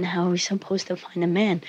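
weary mother impression. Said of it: "There we go again".

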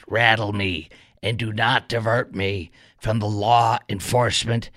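slow, lightly put-on mocking official voice; mock a bureaucrat's measured statement, slowly; a hint of a slow, prissy official reading a statement; Alejandro Mayorkas impersonation. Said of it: "Mayorkas impersonation".

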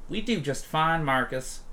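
Rhonda scoffing. Acted. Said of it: "Rhonda scoffs at him".

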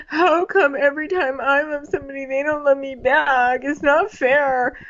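high, whiny self-pity imitation; mock a sulking suitor, slowing toward the end; Colton. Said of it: "All he cares about is, like".

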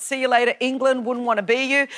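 ordinary talk, nothing marked

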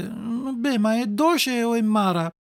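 mildly whiny, drawn-out question; grumbling. Acted. Puppet eyeing the fairy's medicine, grumbling. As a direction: grumble warily, taking it slowly. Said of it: "rugnolando disse".

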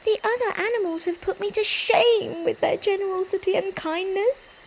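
high, soft little rabbit voice; a timid rabbit, downhearted; gentle sad rabbit. Acted.

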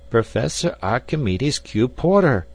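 cold, clipped formal address; icy tones. Acted. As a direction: freeze him out with his full name. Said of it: "in icy tones".

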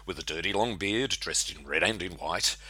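lilting storytelling verse, lifts and dips; comic Christmas poem recital. Acted. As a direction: recite the rhyme like a yarn.

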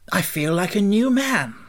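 a scarecrow glad to stand again; cheerful scarecrow. A narrator's reading. Scarecrow set down happily.

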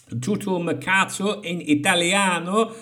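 hammed-up Italian lilt, slow; slow, showy Italian accent; mock Italian accent. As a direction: savour it like a fake Italian. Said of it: "That's how to speak".

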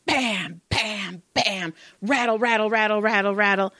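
punchy bams into a rapid rattle; imitated banging. Therapist imitates a client banging on the locked door, imitated banging. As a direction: mimic a door being pounded and rattled.

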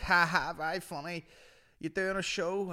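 high, hammed-up mock laugh into a question; mock a wasted lad's heckle; spide character. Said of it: "he's like".

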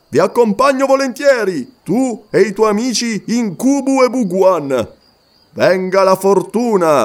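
voce del guerriero Umslopogaas, un po' più alta; un guerriero zulu risponde con orgoglio; guerriero fiero. Acted. Umslopogaas accepts, eager for battle. (guerriero Umslopogaas, tono fiero)

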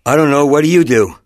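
put-on a touch of a whiny kid; kid brother voice. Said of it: "and he goes".

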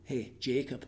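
slow, deadpan Scottish accent; drawn-out mock Scottish delivery. Shown as a demonstration. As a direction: break bad news in comic Scottish. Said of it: "everything's funny with a Scottish accent".

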